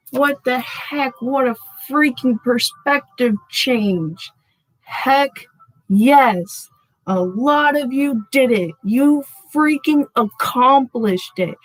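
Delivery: genuinely thrilled at the cards; real excitement. Real, not acted. Thrilled by tarot reading result.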